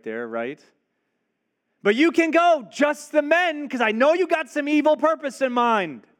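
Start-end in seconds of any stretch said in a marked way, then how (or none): 1.8-6.1 high, loud grudging sneer; sarcastic. Acted. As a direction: grant it with suspicion and contempt.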